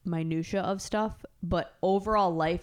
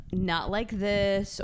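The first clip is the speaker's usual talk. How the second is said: slow mock drag; 2 semitones higher, much slower than usual. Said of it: "You hit it on the head".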